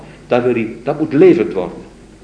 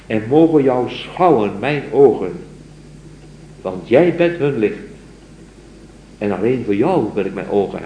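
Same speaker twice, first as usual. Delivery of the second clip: poem recital. Acted. Lecturer reciting the mystic's poem to his students, solemn recital. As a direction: recite it like a devoted lover's plea.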